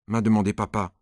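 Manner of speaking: ordinary delivery, nothing marked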